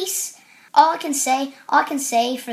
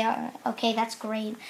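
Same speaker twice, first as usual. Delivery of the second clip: much softer, low grumble; muted, unimpressed reply; under the breath; 3 semitones lower, 9 dB quieter than usual. Retold or imitated. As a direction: say it quietly to yourself. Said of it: "I say kind of under my breath".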